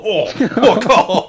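high, loud, slow stunned outburst; shocked exclamation. Retold or imitated. Host recalling watching the fight scene, shocked and loud. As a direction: blurt it out, floored by the scene. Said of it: "我那时候看到说".

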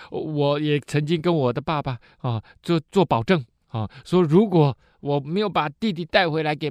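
put-on earnest plea for the youngest boy to go home; pleading Judah. Judah's long plea to Joseph.

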